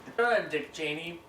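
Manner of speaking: high, loud lisping beaver. Acted. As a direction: try the buck-toothed beaver voice. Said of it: "Maxim Beaver voice".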